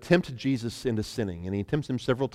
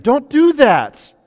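mock shout; 13 semitones higher, 13 dB louder, much slower than usual. Joking misquote of Jesus.

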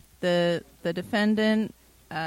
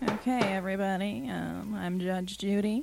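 quiet mumbling; 5 dB quieter than usual. Acted. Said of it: "I can't hear you".

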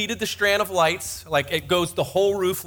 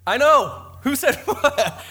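mock surprise; 8 semitones higher, slower than usual. Mock shock at his own confession.

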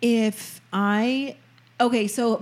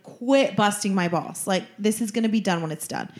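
put-on Sopranos accent. Recalling cooking for a boyfriend, Sopranos accent. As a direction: scold in a mock Sopranos accent. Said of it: "Why did I talk like that?".

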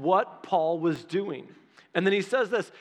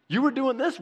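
excited God; 6 semitones higher than usual. Retold or imitated. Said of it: "God's like".

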